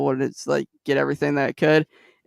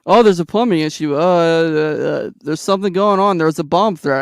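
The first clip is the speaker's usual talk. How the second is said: flustered excuses; 2 semitones higher, 4 dB louder than usual. Retold or imitated. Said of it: "They're like".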